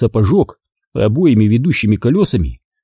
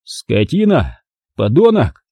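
impotent rage; slower than usual. Acted. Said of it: "бился я в бессильной ярости".

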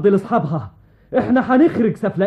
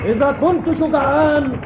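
roaring tyrant king; 2 semitones higher than usual. Acted. King challenges the enemy army.

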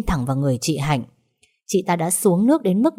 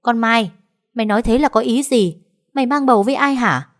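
sharp, higher and louder scolding; snapping angrily; 6 semitones higher, 4 dB louder than usual. A narrator's reading. Mother snaps at the maid, sharp and high. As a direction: bark the demand at her. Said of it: "Mẹ Hòa gắt lên".

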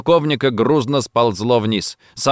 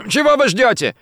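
much higher and loud, impatient; shouting; 13 semitones higher, 4 dB louder than usual. A narrator's reading. Gomikawa shouts at the confused agents, impatient yell. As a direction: yell at them to move. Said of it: "крикнул на них Гомикава".

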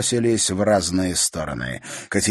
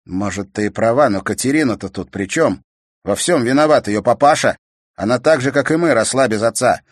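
louder, earnest reasoning; brother defending her; 4 semitones higher, 7 dB louder than usual. A narrator's reading. Brother defending Katerina to his sister, earnest. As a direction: argue for Katerina.

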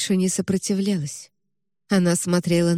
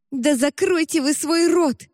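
put-on girl yells at the hushing woman; furious shout; 8 semitones higher than usual.

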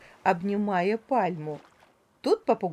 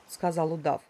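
usual speaking voice

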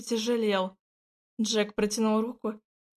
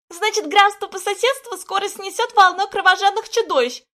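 put-on high, loud cawing old woman; croaking crone; 9 semitones higher, 7 dB louder than usual. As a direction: caw it out like a crow. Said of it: "Прокаркала она".

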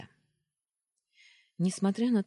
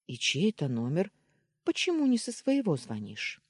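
steely; 4 semitones higher, 3 dB louder than usual. Acted. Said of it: "добавив голосу металла".

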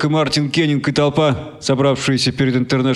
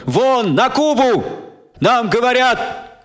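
slow, high cry; shouting; 10 semitones higher, much slower than usual. Acted. Kenning shouting over the crowd, slow high cry. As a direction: hurl it at the crowd. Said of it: "кричал Мартин Кеннинг".

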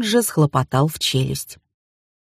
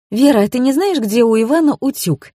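higher, polite sweet question; mock-polite higher voice asking about the iron; 7 semitones higher than usual. A narrator's reading. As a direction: ask politely with feigned innocence. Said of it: "вежливо спросила я".

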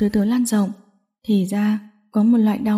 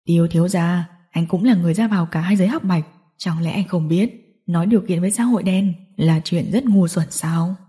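lightly voiced gang boss, mocking; low-pitched, condescending villain; taunting villain; 4 semitones lower than usual. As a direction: sneer at a captive rival.

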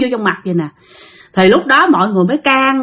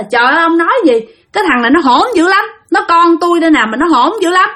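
higher-pitched retold complaint; exasperated scolding; 5 semitones higher than usual. Great-grandmother complains to the master about her unruly child, exasperated. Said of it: "Ý là la nó đó".

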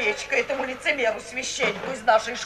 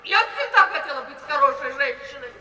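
ordinary talk

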